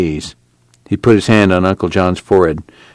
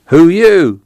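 sudden high startled cry; startled drunk; 10 semitones higher, 6 dB louder than usual. Acted. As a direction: jump at the voice, drunk.

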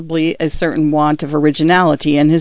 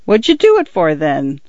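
gruff constable. Acted. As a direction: demand an answer like a suspicious policeman. Constable Winch's voice.

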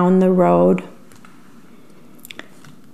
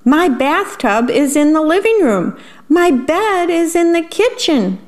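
higher, distressed worm; dismayed wail; 8 semitones higher than usual. A narrator's reading. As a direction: wail at the topsy-turvy house. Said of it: "cried the worm".

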